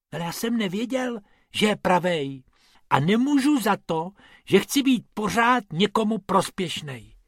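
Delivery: high, whimpering self-defence; plaintive high-pitched protest; whining. A narrator's reading. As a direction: whine an excuse like a hurt child. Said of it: "fňukal Bobek".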